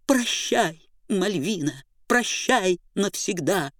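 high, whiny tearful squeak; wailing boo hoo crying. Acted. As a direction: whimper it like a weepy little clown. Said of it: "плаксивым голосом пропищал человечек".

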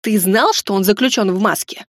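restrained, mildly accusing question; hissed question. Acted. Heroine confronting Ramon about the mask, hissing. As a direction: question him with a slight hiss. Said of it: "прошипела".

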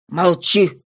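low, firm silencing word; cutting her off. Acted. Husband silences his protesting wife, firm command. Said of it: "остановил её муж".

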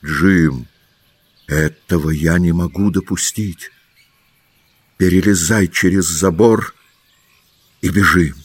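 the doctor suddenly takes charge; a resolute new tone; urgent, changed voice. A narrator's reading. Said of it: "уже совсем другим голосом".

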